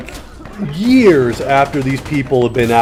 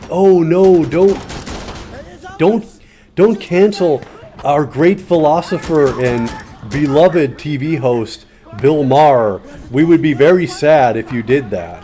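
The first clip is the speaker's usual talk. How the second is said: sarcastic mock plea to spare the TV host. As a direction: fake dismay, laying the sarcasm on thick. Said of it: "or very sarcastically".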